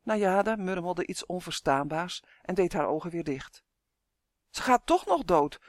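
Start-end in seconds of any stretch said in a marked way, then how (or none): 4.5-5.6 raised, higher-pitched alarm; acted panic, pitched up; panicked cry. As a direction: call out in mild panic, as a storyteller would. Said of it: "riep Uf in paniek".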